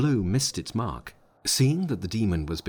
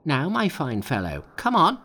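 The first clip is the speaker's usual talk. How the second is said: high, loud come-on; Monkey daring; 6 semitones higher, 4 dB louder than usual. A narrator's reading. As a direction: goad him into the fight. Monkey dares the demon.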